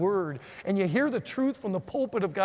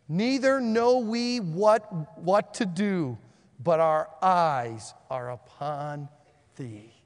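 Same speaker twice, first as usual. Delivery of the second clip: slow, pleading scripture reading; prayerful reading; much slower than usual. Acted. Preacher reading Jehoshaphat's desperate prayer aloud, slow and pleading. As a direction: read the king's prayer slowly as a plea.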